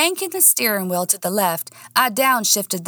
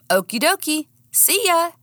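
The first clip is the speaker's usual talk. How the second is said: put-on higher, breezy young man; cheerful guy voice; 10 semitones higher than usual. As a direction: toss it off lightly and upbeat. Daniel voiced in story.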